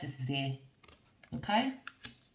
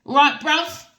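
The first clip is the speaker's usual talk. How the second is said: playful call; 8 semitones higher, 7 dB louder than usual. Acted. Playful slang to viewers.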